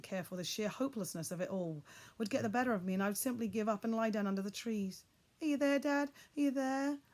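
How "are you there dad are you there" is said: loud high call; shouting. A narrator's reading. Boy calling for his father in the dark, shouting. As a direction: shout into the trees. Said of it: "I shouted".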